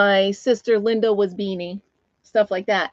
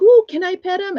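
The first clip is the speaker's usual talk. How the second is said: put-on high, louder eager quote of kids; mock excited kids; 10 semitones higher, 6 dB louder than usual. Little kids asking to pet him, mock excited.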